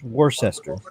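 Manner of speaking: Worcester said as wor-ses-ter, every letter sounded; Worcester, plainly, as spelled; normal way to say it. Shown as a demonstration. Explaining to the stream the normal way. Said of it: "how a normal person would say that is".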